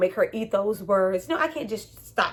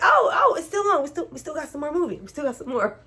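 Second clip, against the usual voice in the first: excited delight; 6 semitones higher than usual. Retold or imitated. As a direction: burst out happily. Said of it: "I was like".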